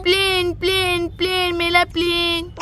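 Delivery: put-on a little boy whose toy just flew away; upset toddler. Toddler chasing his plane.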